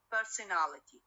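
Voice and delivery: "personality" stressed on AL, the suffix; stress on -ality. Shown as a demonstration. Teacher repeats the example for students, main stress on AL in "personality". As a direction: say "personality" with AL as the strongest syllable. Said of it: "it receives the primary stress".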